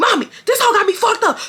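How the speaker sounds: very high, wild, put-on screaming. Retelling screaming on the phone to their mom after losing a fight, retelling a scream. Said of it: "I'm screaming".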